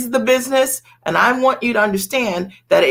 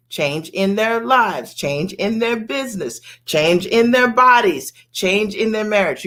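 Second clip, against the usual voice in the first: over enunciating. Shown as a demonstration. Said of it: "Let me say it slowly".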